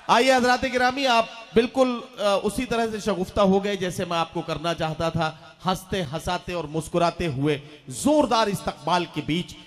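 grand emcee introduction; stage host announcement. Acted. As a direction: announce the poet with flourish. (मंच संचालक का अंदाज़)

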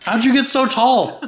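high, slow silly voice; squeaky goofy character voice. Pretend. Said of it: "I just did a silly voice".

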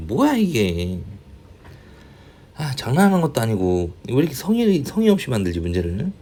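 quick, indignant complaint with swooping pitch; exasperated griping. Real, not acted. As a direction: really grumble about it, fast and fed up. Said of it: "욕을 하는 거예요". (답답해서 빠르게 투덜대며)

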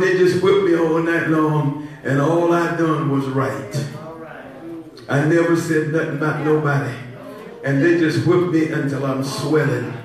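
Jesus. Acted. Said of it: "Could you imagine Jesus talking like that?".

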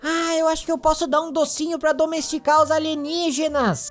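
usual speaking voice

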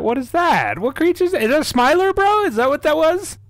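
high, startled questions; rattled after a jump scare; scared horror game streamer. Real, not acted. Just got jump scared.

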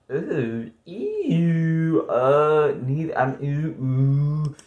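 drawn-out squeamish ews and oohs; grossed-out, hesitant groaning; disgusted. Real, not acted. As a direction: recoil in disgust between words. Grossed out by question.

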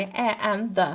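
a, an, the said slowly as words; name each article clearly. Shown as a demonstration. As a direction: say a, an, the one by one. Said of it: "articles konusuna bakacağız".

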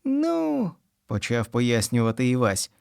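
put-on high, eager boy's voice; a little boy explaining soup, pitched high; young boy Ivas. A narrator's reading. Boy Ivas explaining soup to the wolf, high and eager.

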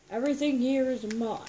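high loud villain laugh; playful villain gloat with cackle; evil cackle. Pretend. Villain line then cackle.

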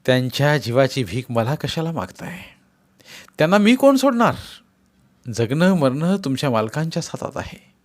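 a touch of scorn, turning away; officer coldly refusing the wife; dismissive officer. Acted. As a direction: brush off her begging. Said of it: "तोंड फिरवून म्हणाला".

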